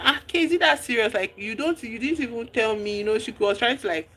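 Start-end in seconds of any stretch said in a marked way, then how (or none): 0.0-3.0 mock angry. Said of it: "angry and all of that".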